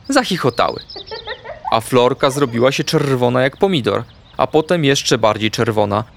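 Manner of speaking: usual speaking voice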